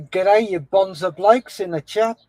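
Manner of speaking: a bad, half-hearted Australian accent; mock Aussie greeting to the chat; crap Aussie accent. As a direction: have a go at an Aussie accent and miss. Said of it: "my crap attempt at an Aussie accent".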